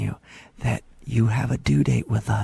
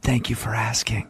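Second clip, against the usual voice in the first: usual speaking voice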